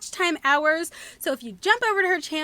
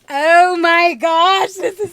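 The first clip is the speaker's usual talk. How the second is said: gushing; 3 semitones higher, 10 dB louder, slower than usual. Real, not acted. Gushing over a gift.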